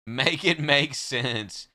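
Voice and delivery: "Make it make sense" very slow, stress on "it". Shown as a demonstration. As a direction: drag each word out in disbelief.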